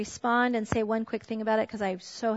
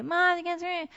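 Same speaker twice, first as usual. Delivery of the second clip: put-on high, whiny teen protest; 7 semitones higher than usual. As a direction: whine like a sulky teenager. Son's whiny protest retold.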